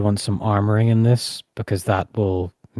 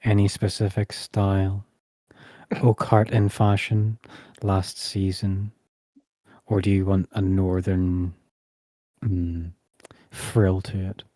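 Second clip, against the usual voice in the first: tailor character; 4 dB quieter than usual. Acted. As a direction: measure out each question like a discreet tailor. Tailor questions the customer.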